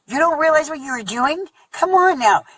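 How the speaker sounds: high, loud mock yell; retold scream. Mother yelling at the dad who smothered the baby, a high, loud mock scream. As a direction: shriek it at him like you're back in that bedroom. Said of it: "just screaming at him".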